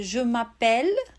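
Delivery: je with a closed E, m'appelle with an open E; French je m'appelle. Shown as a demonstration. Teacher to student: French je m'appelle. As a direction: je m'appelle said carefully. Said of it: "esse E ... fechadinho".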